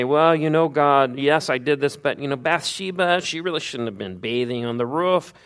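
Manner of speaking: hammed-up blame-shifting whine; mock excuse. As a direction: make a whiny excuse to God. Mock excuse blaming Bathsheba.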